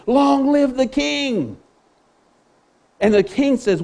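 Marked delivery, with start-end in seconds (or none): 0.1-1.6 higher and slow, stretched out like a royal toast; slow grand acclaim. Retold or imitated. Soothsayer hails the king after reading his dream, slow and grand. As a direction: draw it out to honour the king. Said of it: "in a fashion that didn't belittle the king".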